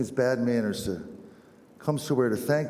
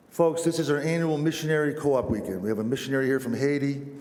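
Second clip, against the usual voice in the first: higher-pitched church announcer; lector's announcement; 4 semitones higher than usual. Retold or imitated. Lector tells Mass-goers about a visiting missionary, announcing. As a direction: announce it to the congregation. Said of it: "the lector was up there talking to us".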